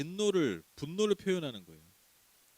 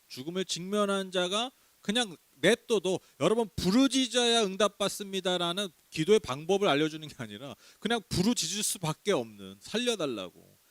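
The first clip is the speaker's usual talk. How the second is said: louder impassioned preaching; preaching at full force; 4 semitones higher, 5 dB louder than usual. Acted. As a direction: drive the point home to the congregation. (열정적인 설교)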